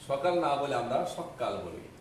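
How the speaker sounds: সকাল said as সক্কাল, k held double; doubled consonant for emphasis. Shown as a demonstration. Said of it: "জোর দেওয়ার জন্য একটা ব্যঞ্জনে দুইবার উচ্চারণ করি". (জোর দিতে সকাল কে সক্কাল উচ্চারণ)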